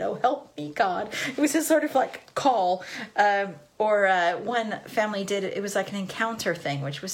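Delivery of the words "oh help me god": imitating a mildly sarcastic plea. Kid's usual call to God, mildly sarcastic. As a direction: say the little prayer with a touch of sarcasm. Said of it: "it was just how he said it".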